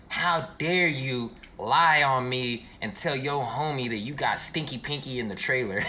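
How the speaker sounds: slow, mildly outraged retelling; mock indignation. Girl confronting him over his lie, mock indignant. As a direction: imitate her scolding, drawn out.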